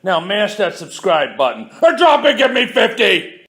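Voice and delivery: barked, high and loud intro; drill sergeant. Acted. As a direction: shout it like a drill instructor.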